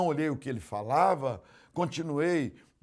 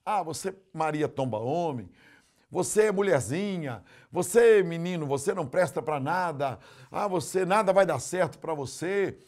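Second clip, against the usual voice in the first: lightly voiced harsh parent, growing louder; a hint of a cursing parent; mock scolding parent; 3 semitones higher, 7 dB louder than usual. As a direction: taunt the child with insults. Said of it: "São palavras assim".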